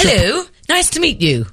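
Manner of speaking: lightly posh greeting; a hint of posh. Shown as a demonstration. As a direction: put on a posh telephone voice. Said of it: "what is your posh voice".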